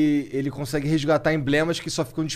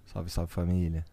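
catchphrase voice; 10 semitones lower, 8 dB quieter, slower than usual. Pretend. Catchphrase greeting in put-on voice.

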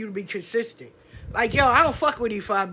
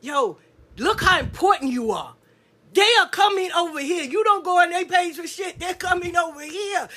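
hyped-up sisters; 4 semitones higher than usual. Retold or imitated. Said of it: "And they be like".

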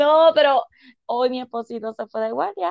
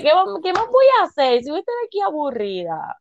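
higher-pitched retold protest; mock protest; 6 semitones higher than usual. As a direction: act out pleading your case to a husband. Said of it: "le dije".

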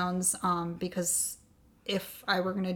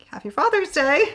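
higher, louder acted announcement; excited reveal; 8 semitones higher, 7 dB louder than usual. Wife revealing pregnancy to husband, excited reveal. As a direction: imitate springing happy news.

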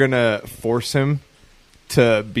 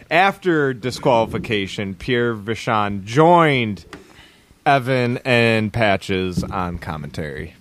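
slow careful reread; 3 semitones lower, slower than usual. Real, not acted. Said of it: "I didn't read it fully".

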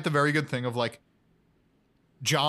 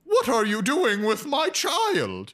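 robot mom voice; 12 semitones higher than usual. Retold or imitated. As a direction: plead as a robot parent. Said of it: "through the microphone goes".

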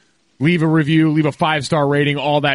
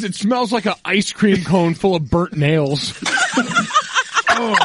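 laughing; 5 semitones higher, slower than usual. Real, not acted. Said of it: "I'm holding my nose".

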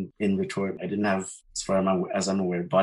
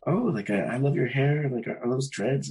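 higher-pitched mock compliment; lightly gushing, pitched up; imitated gushing; 6 semitones higher than usual. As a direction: imitate an over-keen neighbor.

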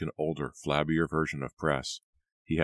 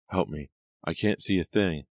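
a girl's slightly raised plea, lightly voiced; cried shrilly. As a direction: call out for help from the floor. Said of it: "the girl cried shrilly".

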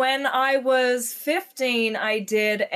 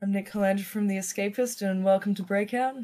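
low, softer American host impression; imitation of an American colleague, pitched down; Nick; 4 semitones lower, 4 dB quieter than usual. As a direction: drop low to mimic a male host's intro. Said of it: "Do the Nick voice one more time".

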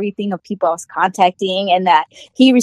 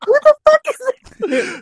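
mock jealous; 14 semitones higher than usual. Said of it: "they're like".

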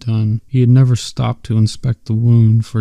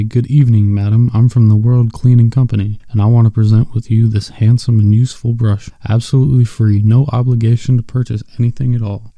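a mild, brisk sales patter; salesman pitch. Shown as a demonstration. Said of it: "I'll show you how to use it".

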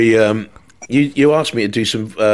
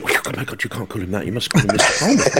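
lightly voiced fussy producer, softer; pompous producer; 4 dB quieter, faster than usual. Producer correcting the presenter, mildly pompous. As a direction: imitate a slightly pompous producer, hushed. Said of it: "producer was a little bit pompous".

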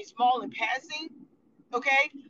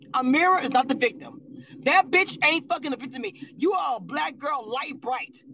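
louder, real anger building; angry vlogger ranting at a reality star; heated outburst; 4 dB louder than usual. Real, not acted. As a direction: hit it hard, you're fed up. Heated rant against a houseguest.

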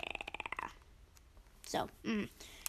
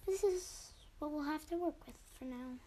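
man doing a woman's voice. Pretend. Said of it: "So I gotta do my girl voice".

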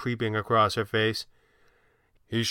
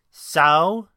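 a louder, insistent "So?"; demanding; 6 semitones higher, 8 dB louder than usual. A narrator's reading. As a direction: press him for an answer. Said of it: "she demanded".

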